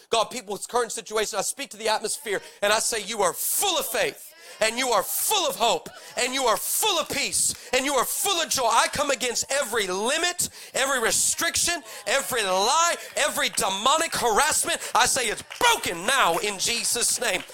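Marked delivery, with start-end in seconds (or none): 3.0-8.7 preacher praying over the room, building; rising prayer declaration. Acted. 8.7-17.4 preaching prayer. Acted. Intercessory prayer.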